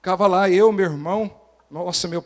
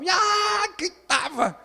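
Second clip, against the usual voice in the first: grito agudo e forte no meio da frase; grito imitado; 14 semitones higher, slower than usual. Retold or imitated. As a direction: solte um grito bem alto e agudo. (lembrando o grito de criança no quintal)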